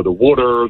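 "water" with a rounded Delco "wooder" vowel; Delco accent. Shown as a demonstration. Caller from Delco demonstrates his accent on "water". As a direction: say "water" the Delaware County way. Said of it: "it's the O's".

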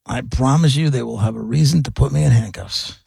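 even, controlled impression of a father; measured retold menace, no shouting; calm threat. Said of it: "the way the calm fell on him".

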